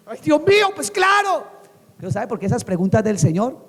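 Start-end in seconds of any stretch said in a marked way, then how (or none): 0.1-1.5 high-pitched, emphatic of-course; exasperated outburst. Acted. Blind man asked if he wants sight, exasperated. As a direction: answer as if it were glaringly obvious.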